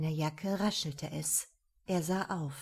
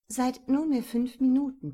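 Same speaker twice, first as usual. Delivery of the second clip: blaring radio; 5 semitones higher, 5 dB louder than usual. A narrator's reading. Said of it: "plärrte er".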